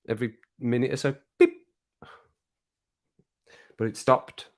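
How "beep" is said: short imitation of a machine beep; imitated beep. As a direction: make a tiny electronic beep. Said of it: "it just goes beep".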